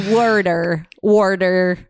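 put-on water as "warder" in old New Yorker accent; Jewish New York accent. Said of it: "hybrid Jewish New Yorkie accents".

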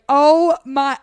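high, loud mock exclamation; a lightly acted overjoyed gasp; retold gasp of joy. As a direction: replay the overwhelmed reaction, hammed-up. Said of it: "and I was like".

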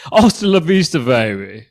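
high, loud mock-English catchphrase; English-Austrian action-star accent; Arnold Schwarzenegger. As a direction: punch it out, then drop on the last word. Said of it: "Schwarzenegger with an English accent".

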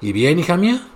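calling out. Acted. Mother calling to her daughter from the house, eager. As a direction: call out to the returning daughter. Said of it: "le gritó".

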